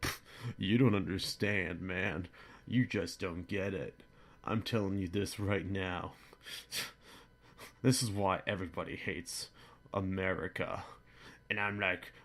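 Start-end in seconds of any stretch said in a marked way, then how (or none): 0.0-10.8 lightly voiced snooty hipster cashier, dismissive; cashier impression. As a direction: hipster scoffing at a customer, slightly mocking. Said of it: "let me do his impression pretty good".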